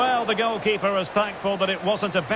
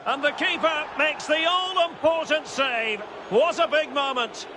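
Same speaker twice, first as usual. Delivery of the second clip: higher-pitched match commentary; excited save call; 5 semitones higher than usual. Real, not acted. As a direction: hail the big save, pitch lifted. Live call of decisive save.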